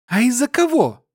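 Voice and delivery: high female voice shooting back; glaring girl. A narrator's reading. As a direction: glare and fire it back high. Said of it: "зыркнула на него Сильфа".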